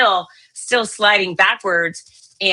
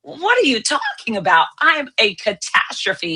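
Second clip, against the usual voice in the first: exasperated disbelief; 4 semitones higher than usual. Retold or imitated. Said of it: "I just grabbed my head and said".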